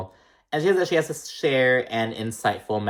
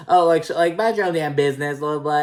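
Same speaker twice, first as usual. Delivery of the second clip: higher, louder annoyed mock voice; irritated snap; 5 semitones higher, 3 dB louder than usual. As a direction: brush them off, annoyed. Imitating Jacqueline snapping.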